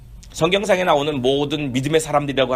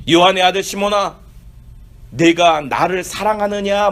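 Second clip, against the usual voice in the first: slow tender question. Acted. Jesus questions Peter.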